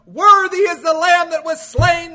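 loud, high proclamation; full-force preacher's cry; mighty shout. Acted. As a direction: shout it out like a worshipping multitude. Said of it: "shouted with all of their might".

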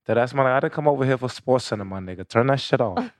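lightly mimicked New York accent. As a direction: imitate a New York man complaining. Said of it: "That's how the fuck they be".

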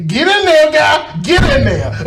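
mock scrubber. Friend mimics the nurse scrubbing.

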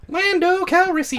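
high, forced Lando voice; a squeaky, overblown Lando; Lando impression, high take. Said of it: "That's too deep".

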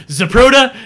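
very high, loud call through a megaphone; megaphone shout. Retold or imitated. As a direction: yell the name out like a film director. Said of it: "like, a megaphone".

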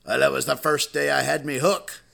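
lightly voiced pirate delivering the punchline; a hint of sea-dog, punched at the end. Pirate explains the lost eye, lightly voiced pirate. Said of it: "there was a real life pirate".

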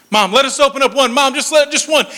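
mock childish begging; begging and pleading. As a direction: plead like kids working on their mother. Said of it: "we would beg and we'd plead".

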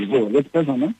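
muffled, boxy phone line; phone in a shoebox. Real, not acted. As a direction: sound like a phone stuck in a box. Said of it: "als ob du gerade das Handy in einen Schuhkarton".

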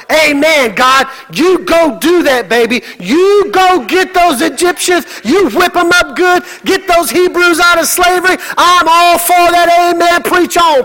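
high-pitched amen-corner cheerleading; cheering Moses. Acted. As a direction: egg God on like an eager congregant. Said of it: "I'm sure Moses is going".

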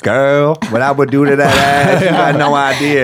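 lightly voiced soulful ladies' man; soulful smooth talker. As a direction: play a mock-soulful flirt, stretching the ending. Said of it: "A soulful motherfucker".

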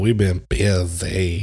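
slow, drawn-out "busy"; imitated movie interviewee. Co-host borrows a movie interviewee's catchphrase, playful slow imitation. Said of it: "just the way he says it".

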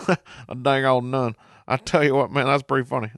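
a hint of Boomhauer's lazy Texan mumble, slowed; imitating Boomhauer. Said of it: "Boomhauer starts laughing".

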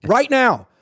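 very loud high slow shout; coach yelling. Retold or imitated. Reporter imitating Harbaugh benching a player, shouting. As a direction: bellow for a new left guard. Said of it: "He'd say something like".

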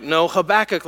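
Habakkuk stressed on the second syllable, huh-BACK-uk; insisting on pronunciation. Acted. Friend insists on their way of saying it, insisting on pronunciation. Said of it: "Nobody knows really what the emphasis is".

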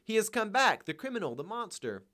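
high, loud outburst of frenzy; frenzied cry. A narrator's reading. Wife raging at her returning husband, frenzied cry. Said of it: "She cried out in a frenzy".

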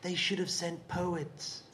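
put-on slow, soft Yorkshire-accented line. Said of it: "North Yorkshire".

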